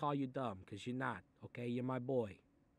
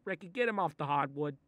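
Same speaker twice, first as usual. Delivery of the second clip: yelling; 3 semitones higher, 8 dB louder than usual. Acted. Yelling at Ricky.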